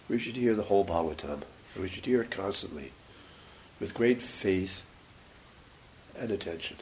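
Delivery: breathless and tired; speaking out of breath; short of breath. Real, not acted. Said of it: "I'm a little short of breath".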